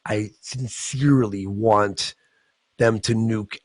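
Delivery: slow, put-on earnest voice; a hammed-up sincere declaration; mock sincere bigot. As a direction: drag it out like a dead-serious hater. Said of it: "A hate speech strike is when you go".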